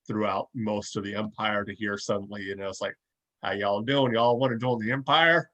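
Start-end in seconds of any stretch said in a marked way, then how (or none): 3.4-5.5 lightly put-on Southern accent; a folksy mock Southern drawl with a rising question. Podcaster mimics an Imperial officer recruiting, light Southern drawl. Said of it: "southern drawl to it".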